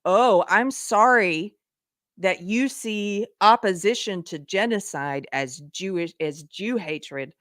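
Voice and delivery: slow, sneering mock apology; mimicking a smug commenter, drawn out; condescending. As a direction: drip fake pity, slowly. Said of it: "say stuff like".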